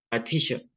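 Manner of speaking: "martillo" with "ll" turned into "sh"; regional pronunciation. Shown as a demonstration. Repeating the example of a sound change, "martillo" with a sh sound. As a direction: say "martillo" like "martisho", lifting at the end. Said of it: "como se dice".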